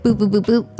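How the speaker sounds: short repeated boop sounds marking people in line; a light sing-song boop count; mock beeps. Shown as a demonstration. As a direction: tap out each person with a boop. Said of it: "This line was, like".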